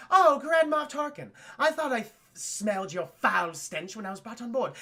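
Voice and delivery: lightly mocked British haughtiness; mock British accent. Leia insulting Grand Moff Tarkin, mock British accent. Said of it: "decided to do a British accent".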